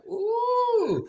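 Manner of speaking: long high-pitched "ooh"; uneasy ooh. Retold or imitated. Listener finding the voice too intimate, high uneasy ooh. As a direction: squeal a drawn-out ooh, very high.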